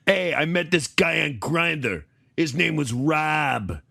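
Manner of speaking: put-on Lake Erie accent. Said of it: "almost a Lake Erie accent".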